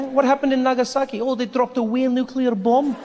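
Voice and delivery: high, breezy Scottish lilt; downplay disaster in a Scottish accent; harmless-sounding Scottish. Acted. Comic showing how Scots downplay disaster, breezy Scottish accent. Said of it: "Doesn't sound that bad".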